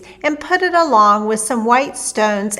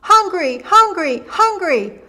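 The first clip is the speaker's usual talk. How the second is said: put-on high, insistent baby holler; baby Finn hollering for food; 7 semitones higher than usual. A narrator's reading. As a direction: wail it like a greedy giant baby. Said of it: "The baby began to holler too".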